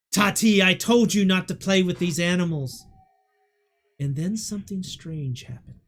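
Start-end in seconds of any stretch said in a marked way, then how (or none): 0.1-2.8 stern scolding. Acted. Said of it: "looks at the little girl and says".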